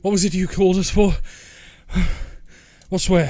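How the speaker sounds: guard's loud, demanding challenge; calling out. Acted. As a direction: question them loudly as a guard. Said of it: "they're calling out".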